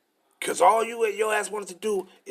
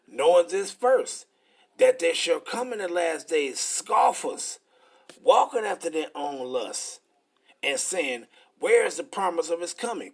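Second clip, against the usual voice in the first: slow, measured Bible reading; preacher reading the verse slowly; scripture reading. Acted. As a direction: read the verse out with weight. Reads scripture aloud.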